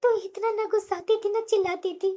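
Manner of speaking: low-key, hushed lament; quiet reminiscing. Acted. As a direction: drop right down, as if talking to yourself. Hurt mother-in-law recalls kinder one.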